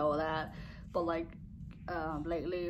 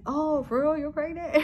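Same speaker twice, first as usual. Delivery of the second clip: high-pitched, astonished questioning; imitated shock; 9 semitones higher, 4 dB louder than usual. Husband learns his wife is pregnant, in imitated shock. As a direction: act out the penny dropping for him. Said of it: "he was just so shocked".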